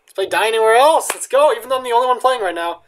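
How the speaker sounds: loud, high rallying cry; rally the band for the next song; hyped-up. Real, not acted.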